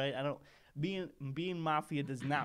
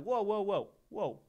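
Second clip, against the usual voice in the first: mock alarm; 6 semitones higher than usual. Startled by skittish stranger.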